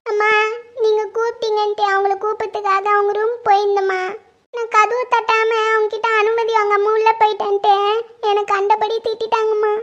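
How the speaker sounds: crying, plaintive account; weepy and wronged; tearful complaint. Acted. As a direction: report the hurt through tears. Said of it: "அழாதீங்க, அவ என்ன சொன்னான்னு".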